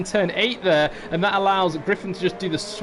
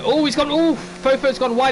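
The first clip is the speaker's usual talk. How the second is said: high, louder burst of alarm; sudden surprise; 7 semitones higher, 5 dB louder than usual. Real, not acted. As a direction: caught off guard by the mistake. Car runs wide live.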